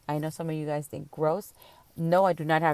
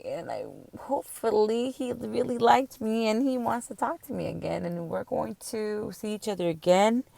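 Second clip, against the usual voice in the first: hopeful woman side; 2 semitones higher than usual. Retold or imitated. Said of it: "the woman side of me came out".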